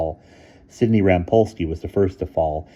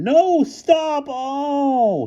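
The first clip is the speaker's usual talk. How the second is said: high loud cry; frantic shout; 6 dB louder, much slower than usual. A narrator's reading. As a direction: yell stop then groan oh. Bruno shouting after the crew.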